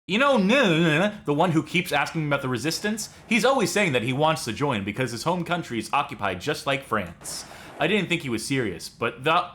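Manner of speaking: put-on hammy French accent reading a mission briefing; over-the-top French accent, fully committed. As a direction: play it like a French Resistance handler. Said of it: "This is my French accent".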